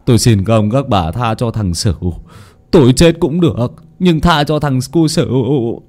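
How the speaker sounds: tearful plea. Acted. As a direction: plead for the son's life. Hoạch begs for son.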